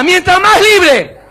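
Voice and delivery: high, drawn-out rallying shout. Shown as a demonstration. Preacher leads the married people in a chant, shouting. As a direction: shout it slowly for a crowd to repeat.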